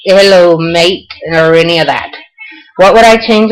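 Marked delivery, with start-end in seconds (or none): 0.1-1.1 failed English accent. Shown as a demonstration. Showing viewers she can't do the English, token English accent. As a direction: badly fake an English greeting. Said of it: "I can't do the English".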